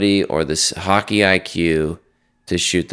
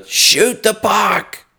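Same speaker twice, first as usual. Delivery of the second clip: yelled order; 12 semitones higher, much slower than usual. Retold or imitated. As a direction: stretch the shout across the whole rink. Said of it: "and I screamed".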